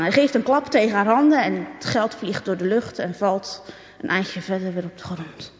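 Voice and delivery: usual speaking voice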